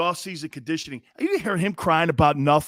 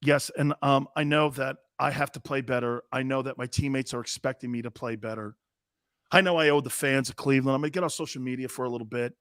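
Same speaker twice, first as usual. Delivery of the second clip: Baker Mayfield impression; 5 semitones lower, 4 dB quieter than usual. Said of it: "Here's my impression of Baker Mayfield".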